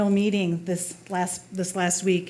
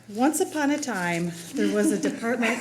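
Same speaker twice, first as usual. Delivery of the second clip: storybook narration. Pretend. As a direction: read it like a bedtime story. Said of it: "I'm just kidding".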